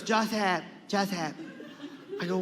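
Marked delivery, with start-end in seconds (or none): 0.0-1.3 lightly voiced accented grandmother; Lola Tinay. Grandmother calls her grandson in the car, lightly acted. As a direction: call out as a grandmother, lightly put on. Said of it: "She goes".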